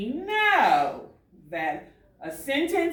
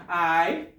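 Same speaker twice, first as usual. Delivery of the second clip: slow dictation; 4 semitones lower, much slower than usual. Shown as a demonstration. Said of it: "Then we wanna have a space".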